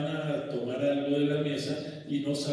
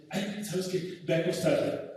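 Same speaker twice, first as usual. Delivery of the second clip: higher, weary dismissive father; 6 semitones higher than usual. Retold or imitated. Father sending his energetic child to bed, dismissive. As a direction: brush the kid off to bed. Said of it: "Y el papá dice".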